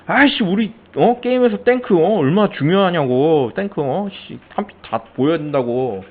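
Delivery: high, worked-up mock rant; heated insistence. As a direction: insist the tank matters, getting worked up. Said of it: "뭐 이러면은". (탱크가 중요하다고 흥분해서 따지는 말투)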